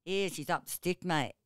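lightly voiced broad Northern Territory Australian uncle; a hint of outback Australian drawl, casual; broad Australian accent. Uncle from Darwin telling a saying, in a light broad Australian accent. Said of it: "Northern Territory Australian".

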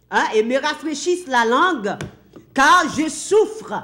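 a tormented man crying out for pity; rich man crying out. Acted. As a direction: beg Father Abraham for mercy from the flames. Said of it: "s'écria en disant".

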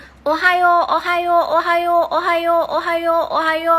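"โอไฮโอ" chanted over and over, high and loud; repeated drill. Shown as a demonstration. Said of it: "แล้วก็พูด".

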